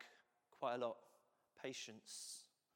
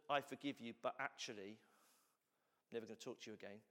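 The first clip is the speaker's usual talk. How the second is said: grudging forgiveness; 3 semitones lower than usual. Retold or imitated. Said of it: "if it wasn't".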